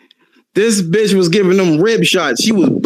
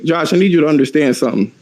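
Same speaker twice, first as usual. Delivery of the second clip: mock calm mother. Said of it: "She was like".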